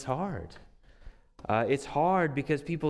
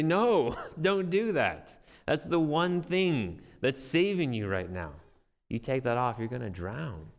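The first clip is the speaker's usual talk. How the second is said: urgent warning; 3 semitones higher, 3 dB louder than usual. Pretend. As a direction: warn them off urgently, slowing on the key words. Urgent warning to drowning person.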